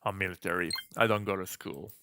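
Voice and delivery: lightly deepened military guy voice; a hint of a calm, deep-voiced soldier. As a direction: drop slightly into a deep, tame character voice. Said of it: "Let's just give him a deep voice".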